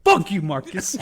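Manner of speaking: loud, high, laughing through it; laughing mock curse. Friend quoting Will Smith cursing his partner, laughing. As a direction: curse while cracking up. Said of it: "He's like".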